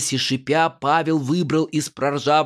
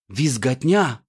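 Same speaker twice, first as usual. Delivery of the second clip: ordinary delivery, nothing marked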